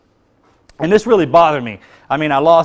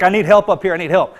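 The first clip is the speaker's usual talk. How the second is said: higher, louder cry for help, retold; retold scream for help; 4 semitones higher, 4 dB louder than usual. The trapped friend to Marcus, a retold cry for help. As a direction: call it out like he's pinned down. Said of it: "he started screaming for help".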